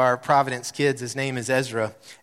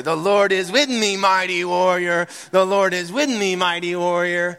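empowered declaration; 5 semitones higher, 4 dB louder than usual. Shown as a demonstration. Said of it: "saying it this week in that same tone".

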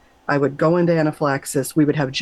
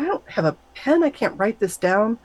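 panic; 7 semitones higher than usual. Retold or imitated. Panicking inner thought.

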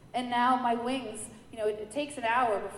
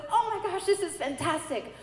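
delighted; 7 semitones higher than usual. Retold or imitated. Delighted teacher retold.

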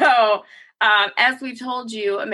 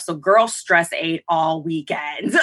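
laughing through the words; 4 semitones lower, slower than usual. Real, not acted. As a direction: confess while giggling. Laughing confession.

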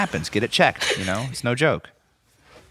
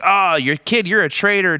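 mock outrage; 5 semitones higher than usual. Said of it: "every emotion that you could have".

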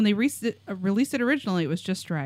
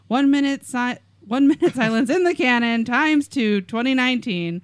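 excited; 4 semitones higher, 6 dB louder than usual. Acted. Excited reading of listener prediction.

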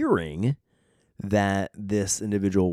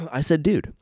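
high, louder quote of himself; high-pitched exclamation; 7 semitones higher, 5 dB louder than usual. Real, not acted. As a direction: pitch it up on "Dude". Repeats his word in two ways.

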